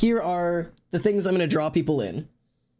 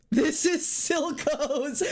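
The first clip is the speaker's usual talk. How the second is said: high, slow words through a laugh; 9 semitones higher, much slower than usual. Real, not acted. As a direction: barely get it out for laughing. Laughing at funny outfit.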